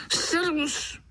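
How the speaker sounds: high, carrying hello across the brook; bright holler from a mosquito; hollered greeting. Acted. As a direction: call out like a cheerful stranger.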